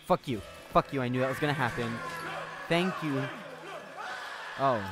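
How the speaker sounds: loud angry swearing; angry outburst. Real, not acted. Player yelling at a game character, loud angry swearing. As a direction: yell it at the screen.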